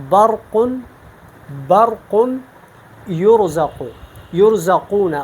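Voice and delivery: برق with a thick, full R; heavy ra. Shown as a demonstration. Teacher showing the difference to students, heavy ra. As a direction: make the ra in یرزقون heavy. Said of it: "یہ میں نے پر پڑھا".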